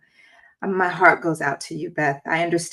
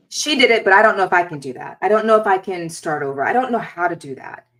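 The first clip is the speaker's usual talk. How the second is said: imagined anxious mom; 3 semitones higher, 5 dB louder, faster than usual. Retold or imitated. Host voicing a struggling mother's fears, anxious and rushed. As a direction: voice a doubting mom's panic, fast. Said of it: "this feeling of".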